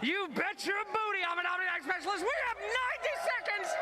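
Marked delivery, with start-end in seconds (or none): 0.0-2.2 excited shout. Real, not acted. Hype reporter greeting on air.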